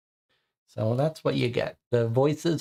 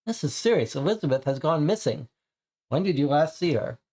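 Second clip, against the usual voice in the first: annoyed player; 3 semitones higher than usual. Acted. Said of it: "And we say".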